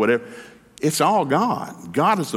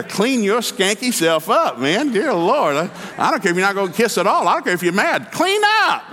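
rising exhortation to shouting; 7 semitones higher than usual. Real, not acted. Preacher scolding the men about hygiene, building to a shout.

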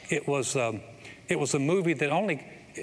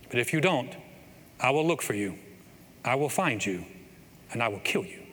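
Liam Neeson impression; 2 semitones lower than usual. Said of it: "This is my best Liam Neeson impression".

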